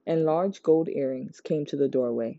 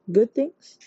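curious question; 8 semitones higher, 5 dB louder than usual. A narrator's reading. Sunny's eager question.

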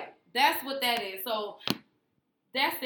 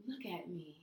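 mock spiritual voice; 6 semitones lower, 13 dB quieter than usual. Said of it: "that's how she was talking".

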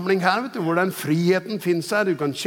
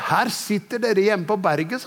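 raised, higher-pitched retold rebuke; retold stern call; 5 semitones higher than usual. Preacher quoting the Holy Spirit's rebuke, stern raised voice. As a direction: quote a forceful divine scolding. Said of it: "ikke bare sa det sånn pent".

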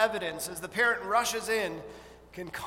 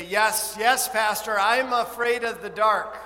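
voicing a scared child; 2 semitones higher, 7 dB louder than usual. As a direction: play a frightened little kid, lightly. Children's voice in sermon.

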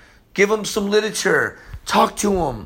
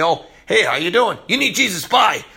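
raised-pitch, hit-and-run evangelist act; mock breezy greeting; 3 semitones higher, 3 dB louder than usual. Preacher mimicking careless evangelists, mock breezy greeting. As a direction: toss it off like a parody of a drive-by witness.

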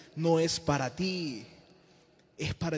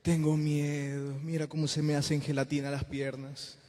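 mock fearful plea; 2 semitones lower than usual. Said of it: "pensamos que con Dios podemos ir".

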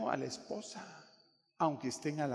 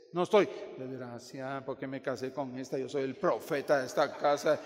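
grumbling husband; 3 semitones lower than usual. Acted. Husband complaining about cooking his own eggs, mock grumbling.

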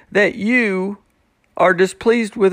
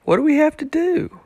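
over the top; 10 semitones higher than usual. Retold or imitated. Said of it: "over the top".

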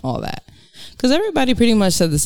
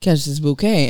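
sassy retort. Retold or imitated. Retelling own sassy remark at wedding.

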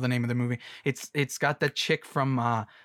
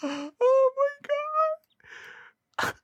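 stifled giggles; much slower than usual. Real, not acted. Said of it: "I'm trying not to laugh too hard".

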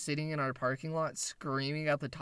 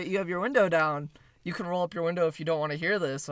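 raised, slightly higher street-rant voice; retold yelling; 3 semitones higher, 5 dB louder, faster than usual. Street man telling a driver about the window, retold yelling. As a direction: imitate a stranger calling out at a driver. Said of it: "he just starts fucking yelling and yelling".

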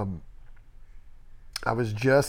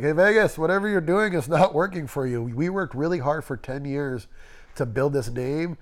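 passive-aggressive. Retold or imitated. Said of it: "he was a nice passive-aggressive".

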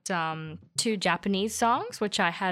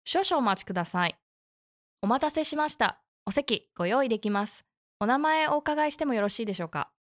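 customer service voice. Acted. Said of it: "I love your beautiful N H K Japanese".

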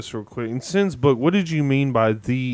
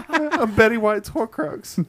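silly high voice; 10 semitones higher, slower than usual. Pretend. Joking in silly voice.

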